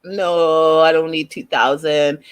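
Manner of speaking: low, reluctant mock reply; drawn-out low "no", lightly imitated; squirrely refusal. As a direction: imitate him getting cagey, voice dropped. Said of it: "He gets all squirrely about it".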